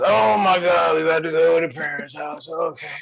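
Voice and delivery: dragging, bored moan about the visit; hammed-up dread of the parents' house; mock groaning complaint. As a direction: whine like a reluctant partner. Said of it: "be like".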